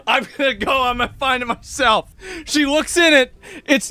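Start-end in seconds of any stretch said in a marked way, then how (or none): 0.1-2.1 mom yelling. Retold or imitated. Mom storming to find the lighter herself, mock yell. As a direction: bark it like an angry mom. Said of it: "yelling at me".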